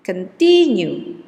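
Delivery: "continue" slow with con-TIN-ue stressed. Shown as a demonstration. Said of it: "the fourth is in the second one".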